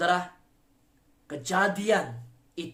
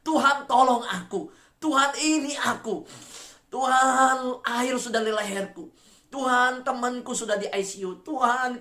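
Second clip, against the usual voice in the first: raised, pleading cry to the Lord; acted desperate prayer shout; crying out to God; 4 semitones higher, 3 dB louder than usual. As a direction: call out each "Tuhan" loud, high and long. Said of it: "engkau mungkin berteriak".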